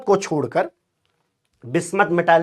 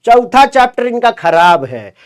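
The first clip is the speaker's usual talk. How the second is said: imagined dismissive student; 4 semitones higher, 4 dB louder than usual. Acted. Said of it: "बाद में सोचेगा".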